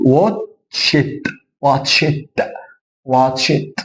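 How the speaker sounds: "واتش ات" said as "watcht", ending on voiceless T. Shown as a demonstration. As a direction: finish "واتش ات" with a crisp T, no D. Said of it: "دي، لا، اقول".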